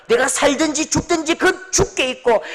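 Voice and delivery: normal talking voice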